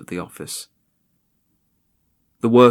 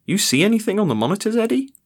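casual guard call; 12 semitones higher, 4 dB louder, much faster than usual. Acted. Guard calling to colleague.

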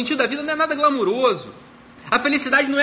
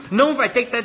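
ordinary talk, nothing marked

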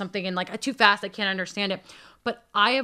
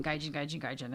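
low, very soft imitated murmur; whispering; 5 semitones lower, 12 dB quieter than usual. Many voices whispering behind a foreigner's back, hushed. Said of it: "I hear the whisper on the wind".

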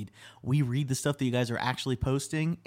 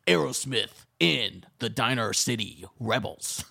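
Impression of a rock singer; 2 semitones lower than usual. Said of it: "I can do a good impression of a singer".

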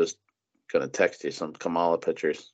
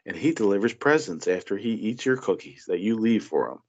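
a hint of a patronising adult; condescending mock voice; 2 semitones higher than usual. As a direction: imitate talking to a child. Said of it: "It's just like".

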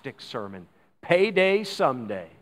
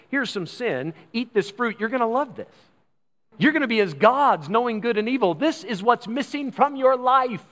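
higher-pitched, eager mock temptation; enticing; 6 semitones higher than usual. Devil tempts people with the fruit, lightly acted eager enticement. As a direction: sell it like a tempter.

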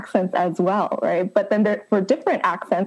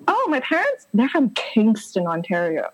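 feigned breezy reply. Retold or imitated. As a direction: play it brightly innocent. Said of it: "I'd be like".

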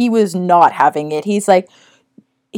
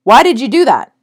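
louder, mildly exasperated challenge; angry coworker; 3 semitones higher, 5 dB louder than usual. Retold or imitated. Coworker confronting a gym member who walked in, angry. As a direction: retell a coworker seeing red, raised voice. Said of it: "like, saw red".

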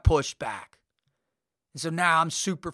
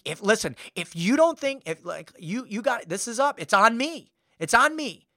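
imitating a defensive organizer; mock territorial insistence, pitch jumping up on key words; insistent; 3 semitones higher than usual. Organizer asserting control in argument.

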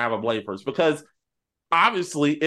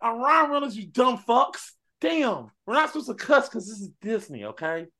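Deadpool voice; 9 semitones higher than usual. Retold or imitated. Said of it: "Deadpool voiced in the story".

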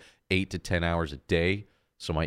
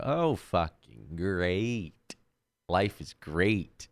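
sarcastic; much slower than usual. Retold or imitated. Sarcastic reaction to earache.

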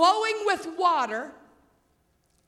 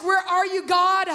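anguished cry; 2 semitones higher, 4 dB louder than usual. Retold or imitated. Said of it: "If you've never asked".

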